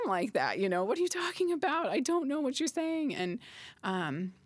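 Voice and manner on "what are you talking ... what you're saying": mock confusion. Mimicking confused looks.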